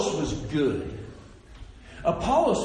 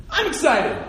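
higher-pitched, acted enthusiasm; mock excitement; 5 semitones higher, 3 dB louder than usual. Listener infected by a speaker's passion, acted excitement. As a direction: perk up as if caught by their excitement. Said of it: "but you're so excited".

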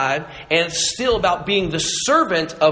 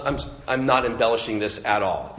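normal talking voice

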